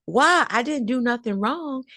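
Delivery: high, lightly voiced defensive kid; a hint of a boy pleading innocence; child protesting.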